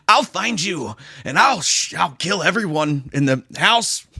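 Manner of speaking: mocking a weak killer voice; inept dirty talk. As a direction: imitate a threat that comes out as clumsy pillow talk. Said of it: "It sounds like someone trying to talk dirty in bed".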